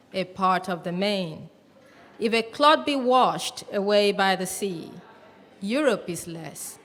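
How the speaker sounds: measured reading with long pauses between lines; poem recitation. Acted. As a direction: recite it to the audience, each phrase falling at its close. Reads a poem aloud.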